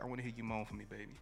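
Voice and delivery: low, soft bedroom coaxing; seductive partner. Retold or imitated. Partner asking a lover to moan, seductive. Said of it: "you see them, just like".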